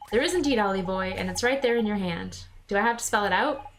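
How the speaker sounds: lightly voiced regional Drippy accent; chummy sidekick in his non-standard English; a hint of a folksy accent; Drippy's accent. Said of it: "writing in that accent".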